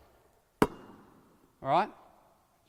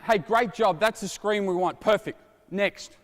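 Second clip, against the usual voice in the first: praising player; 2 semitones higher than usual. Shown as a demonstration. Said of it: "Celebrate the small wins".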